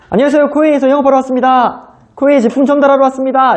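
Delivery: imitating his younger self bursting in to sell; eager salesman greeting.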